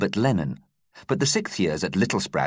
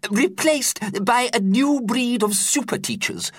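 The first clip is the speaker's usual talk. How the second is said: put-on high, fretful old teacher voice; worried teacher explaining. A narrator's reading. Teacher explaining to pupils in his high worried voice. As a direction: explain it with a nervous quaver in mind. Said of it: "explained Sherbet Lemon".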